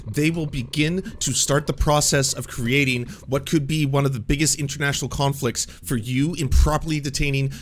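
forceful, unbroken indignant declaration; blustering bluff. Retold or imitated. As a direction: lay down a fabricated ultimatum to police. Bluffing police after embassy call.

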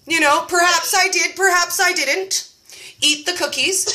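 teasing sing-song maybe; coy hedging. Pretend. Dodging her cookie count, coy and teasing. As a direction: play innocent, rising on didn't. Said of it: "coy hedging".

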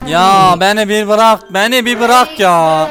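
slow, loud, begging to be let go; drawn-out pleading. Real, not acted. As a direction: stretch every word, fed up and begging. Pleading with chasing game monster. (yavaş, yüksek sesle yalvarma)

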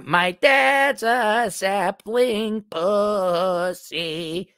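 very slow, drawn-out sneering voice; mock the weak dad, stretched out; mock whiny voice. Mocking the caller's dad.

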